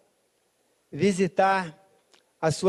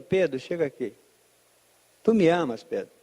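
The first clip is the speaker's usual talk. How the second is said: gentle retold question; 6 semitones lower than usual. Jesus gently takes Peter aside.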